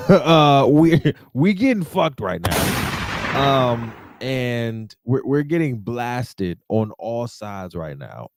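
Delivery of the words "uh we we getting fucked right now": laughing marine voice. Retold or imitated.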